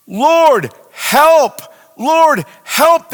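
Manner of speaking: high, loud desperate plea; crying for help. Retold or imitated. Sailors in terror calling on God, loud desperate cry. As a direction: call out like sailors in a storm. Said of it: "they cried in their trouble".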